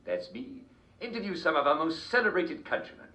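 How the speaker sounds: bright presenter announcing the show; cheery talk show opener; TV show host. Acted. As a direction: introduce the program like a chat-show host.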